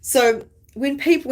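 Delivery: ordinary talk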